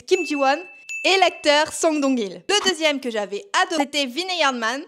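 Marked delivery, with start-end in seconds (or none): 4.0-4.8 French accent in English. Real, not acted. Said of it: "Désolée pour mon accent anglais".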